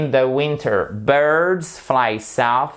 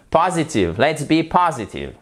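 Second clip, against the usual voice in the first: "Positive" stressed on POS, higher pitch; 4 semitones higher than usual. Shown as a demonstration. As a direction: hit the first syllable of "positive". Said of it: "l'accent tonique est sur la première syllabe". (accent tonique sur la première syllabe de "positive")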